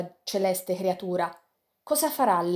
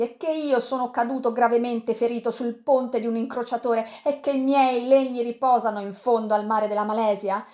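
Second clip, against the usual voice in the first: higher, rising fury at the defeat; bitter outburst; 3 semitones higher than usual. Acted. Sandokan telling Yanez of the slaughter, bitter rising anger. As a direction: pour out the bitter loss, building.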